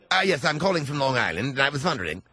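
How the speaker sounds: mimicked phony British English; mocking British accent. Host mocking the last caller to Scott, phony British accent. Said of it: "Were you buying that guy's accent?".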